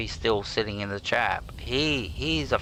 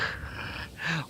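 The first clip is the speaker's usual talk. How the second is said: breathy laugh; 8 semitones higher, 8 dB quieter than usual. Real, not acted. Laughs at own joke.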